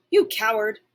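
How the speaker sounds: a loud barked insult; dog taunting the squirrel, loud; barking. Acted. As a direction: snap it at the squirrel. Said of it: "I bark".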